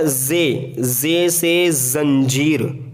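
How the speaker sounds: जे से जंजीर, very slow with a firm buzzing ज़. Shown as a demonstration. Teacher to learners: a slow, firm जे से जंजीर. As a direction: press hard on the जे in जंजीर. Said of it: "जे थोड़ा सख्ती से इसको हमें अदा करना है".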